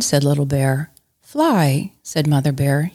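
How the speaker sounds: playful read-aloud with character voices; reading Little Bear to a child; story narration. A narrator's reading. Mom reading Little Bear to her kids, playful.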